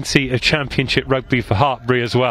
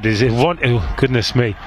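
lips numb from cold; cold numb mouth; 2 semitones lower than usual. Real, not acted. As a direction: mouth too cold to work. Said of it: "So cold, my mouth stopped working".

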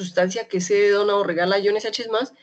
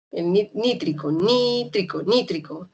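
nítrico with the stress on NÍ. Shown as a demonstration. Teacher drilling students on the stressed NÍ of nítrico. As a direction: lean on the first syllable of nítrico. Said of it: "la E tilde es en la primera I".

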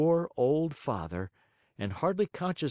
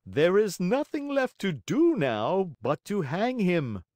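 assassin voice; 7 semitones higher, 4 dB louder than usual. Acted. Assassin speaks.

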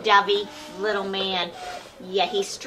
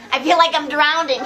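laughing out of breath, a bit louder; laughing breathless; 3 semitones higher, 5 dB louder than usual. Real, not acted. Struggling with a strong dog, laughing breathless. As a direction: gasp it out through laughter.

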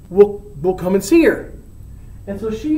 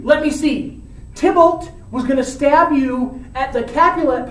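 higher, sarcastic scolding building to a shout; lecturing friar; 4 semitones higher than usual. Retold or imitated. Friar lectures Romeo sarcastically, ending in a shout. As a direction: count off his lucky escapes with mock patience. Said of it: "And the friar goes".

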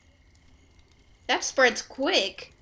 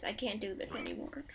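joking whispered surrender; mock despair; 3 semitones lower, 11 dB quieter than usual. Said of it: "Okay, I'm kidding".

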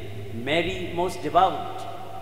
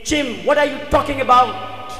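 high, loud indignant outcry; raised-voice mock scream; acted screamed protest; 7 semitones higher, 6 dB louder than usual. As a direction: cry out as the appalled wife. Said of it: "Jane screamed at him".

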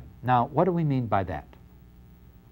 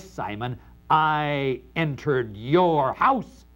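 cold steel. Acted. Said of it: "that tone of voice ... cold steel".

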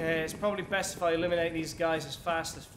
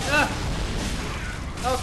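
startled cry; 4 semitones higher, 3 dB louder than usual. Real, not acted. Startled by attack.

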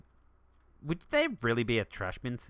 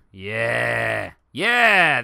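excited cheer; 10 dB louder than usual. Real, not acted. Celebrating build.

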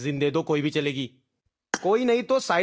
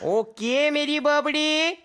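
slow sing-song catchphrase; 5 semitones higher, slower than usual. Acted. Catchphrase repeated.

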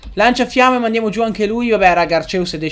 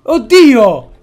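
loud, high-pitched yells of disbelief; shocked outburst; 7 semitones higher, 9 dB louder, much slower than usual. Real, not acted. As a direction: cry out in horror at what just appeared. Reazione scioccata a sorpresa nel gioco. (urla acute, incredule)

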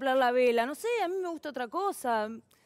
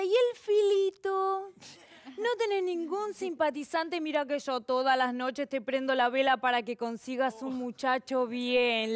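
grandma voice. Retold or imitated. Voicing her grandmother.

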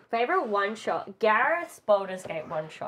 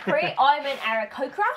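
higher, lilting birdfolk voice; a hint of Cree the Aarakocra, sing-songy; 6 semitones higher, 4 dB louder than usual. Shown as a demonstration. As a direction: chirp it out like the bird character. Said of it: "Cree was quite sing-songy".

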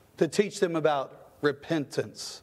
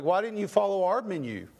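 higher, scolding like an impatient doctor; 5 semitones higher than usual. Retold or imitated. Doctor scolding a patient who ignored the menu, higher and scolding. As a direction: talk down to her like a doctor who knows best. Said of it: "That's how he talks to him".

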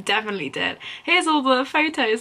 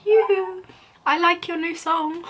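mock fan gush; 7 semitones higher than usual. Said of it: "be like".

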